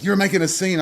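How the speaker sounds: quoting the ex who got caught out, a touch indignant; quoted ex. Retold or imitated. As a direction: hiss it back as the caught liar. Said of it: "And he's like".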